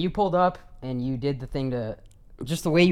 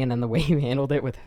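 stifled giggles; faster than usual. Real, not acted. Laughs mid-sentence recalling funny moment.

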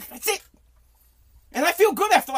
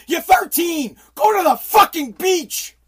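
louder and higher, fed-up dad yelling; exasperated shout; 5 semitones higher, 5 dB louder, slower than usual. Pretend. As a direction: snap at the teen to just go. Imagined dad yelling at kid.

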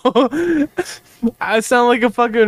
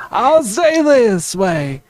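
put-on southern accent; 3 semitones higher than usual. Demonstrating his character voice to friends, dry southern accent. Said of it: "like a dry southern accent".

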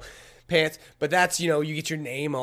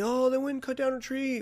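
high mock objection; 10 semitones higher than usual. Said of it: "you might say".

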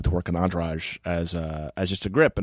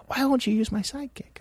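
high whiny voice. Retold or imitated. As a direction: whine it in a squeaky pitch. Quoting Kevin whining.

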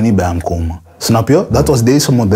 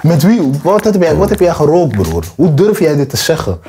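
angry confrontation; 5 semitones higher than usual. Pretend. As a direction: lean in hard, daring him to answer. Imagined confronting the rival, ear grabbed.

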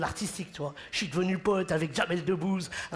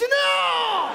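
loud refusal; 14 semitones higher, 7 dB louder than usual. Acted. Refusing loudly, laughing.

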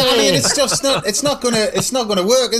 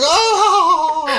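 merry mock moan; 10 semitones higher than usual. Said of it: "sort of merrily going".

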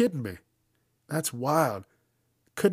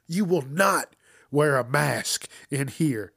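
slow stern preacher; 2 semitones higher, 4 dB louder, slower than usual. Retold or imitated. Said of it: "That's what he said".

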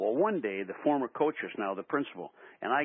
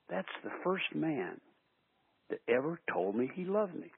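near tears; 5 semitones higher, 4 dB quieter than usual. Real, not acted. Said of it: "I could almost cry right now".

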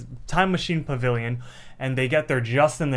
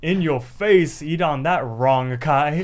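gloating taunt; 3 semitones higher, 6 dB louder, much slower than usual. Retold or imitated. Muscle Man gloating in story.

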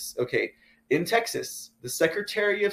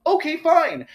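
grudging okay fine; 12 semitones higher, 5 dB louder than usual. Real, not acted. Grudging concession to a politician.

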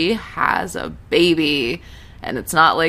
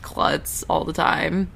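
mock self-talk. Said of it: "Just like".

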